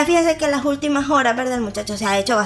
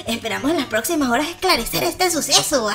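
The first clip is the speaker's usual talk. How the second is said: noticiero de broma con risa contenida; mock news anchor; 3 semitones higher than usual. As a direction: lee como presentador de noticias, medio riendo. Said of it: "Como hizo buen noticiero". (imitación ligera de locutor de noticias)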